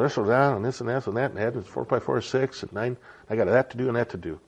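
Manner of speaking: quick, running mental list; busy-mind chatter. Retold or imitated. Trying to sit quiet while the mind races, hurried chatter. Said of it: "my mind's going".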